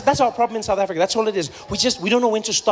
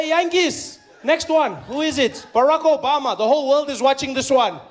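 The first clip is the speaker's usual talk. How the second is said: urgent warning; 4 semitones higher than usual. Retold or imitated. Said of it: "I say".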